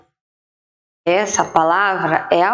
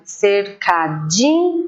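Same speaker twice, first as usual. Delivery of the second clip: slow sounding out; slower than usual. Shown as a demonstration. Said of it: "igual da casinha".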